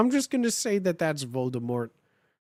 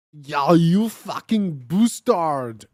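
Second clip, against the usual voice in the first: slow, loud yell at a rival; mock yell of a hammed-up fanfic villain; 6 dB louder, slower than usual. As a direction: bellow it out like a furious teen. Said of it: "yelled Draco at Vampire".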